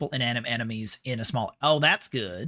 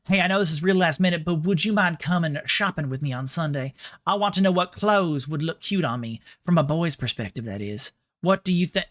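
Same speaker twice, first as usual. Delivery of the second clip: put-on feminine Southern accent; 2 semitones higher than usual. Streamer reading a girl's invitation to shopping, feminine Southern accent. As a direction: ask like a Southern belle. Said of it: "putting on a bit more of a".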